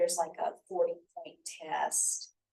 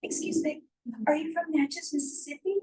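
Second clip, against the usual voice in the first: higher-pitched, inquisitive approach; retold curious question; 9 semitones higher than usual. Professor re-enacts asking a stranger about his shirt, curious. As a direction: re-enact a polite, intrigued question. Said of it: "And I was like".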